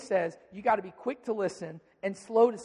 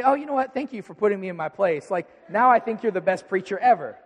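mock gratitude; 7 dB louder than usual. Mock-grateful reply to an insult.

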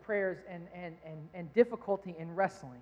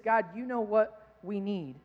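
quoting song lyrics, slow; slower than usual. Retold or imitated. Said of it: "it simply said this".

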